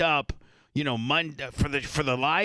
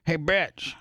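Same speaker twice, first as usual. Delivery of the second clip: playfully insulting hello, slightly raised; mock-rude greeting. Host showing how they greet the guest's sister, playfully rude. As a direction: greet a sibling with a friendly insult. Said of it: "That's how I talk to her".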